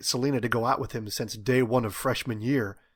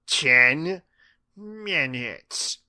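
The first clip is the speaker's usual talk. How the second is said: "Ten" punched loud, "minutes" higher, a pause between; emphatic; 4 semitones higher, 4 dB louder, much slower than usual. A narrator's reading. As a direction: set "Ten" and "minutes" apart, each stressed. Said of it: "she said with emphasis".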